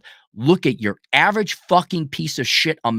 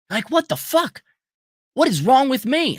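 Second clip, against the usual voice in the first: put-on high, whiny confused kid; mocking confused boy; 10 semitones higher than usual. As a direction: whine it like a lost boy.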